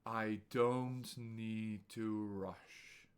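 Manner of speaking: slow, gentle model sentence; unhurried, let it breathe; very slow calm delivery; very slow and soft. Shown as a demonstration. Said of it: "Listen and repeat out loud".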